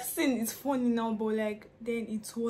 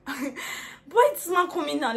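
annoyed; 4 semitones higher, 7 dB louder than usual. Retold or imitated. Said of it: "I was so pissed".

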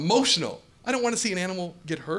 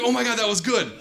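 excited inner pep talk; 4 semitones higher than usual. Retold or imitated.

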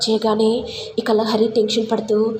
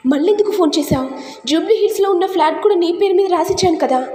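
mocking blackmailer; 4 semitones higher than usual. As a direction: taunt her like a smug blackmailer. Blackmailer demands on phone.

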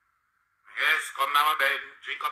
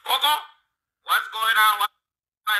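calling out; 5 semitones higher, slower than usual. Real, not acted. Calling out to Coco.

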